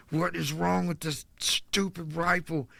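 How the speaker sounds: high, drawn-out exasperated outburst; freaking out. Retold or imitated. Man retelling his outburst at a rifle, high-pitched exasperation. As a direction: retell it high and slow, in frustrated disbelief. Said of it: "So I'm, like, freaking out".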